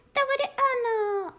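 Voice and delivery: very high, slow, squealing delight; cat rejoicing at finding the way home; joyful cat. Acted. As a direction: squeal it like an overjoyed kitten. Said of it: "radovala se kočička".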